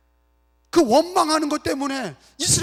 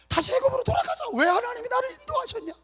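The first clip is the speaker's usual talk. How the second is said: much higher mock wail of complaint; panicked complaining; 11 semitones higher, 5 dB quieter than usual. Preacher as Israelites wanting Egypt back, complaining. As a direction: imitate a grumbling crowd in panic.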